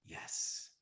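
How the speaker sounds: tiny whispered reply, play-acted; hushed, voiceless mock acceptance. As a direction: whisper it as the one proposed to. Acted acceptance of marriage proposal.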